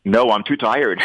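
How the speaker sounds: joking refusal breaking into a real laugh; real laughter at a playful excuse; laughing joke. Real, not acted. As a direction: laugh through the teasing no. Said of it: "Couldn't blame you".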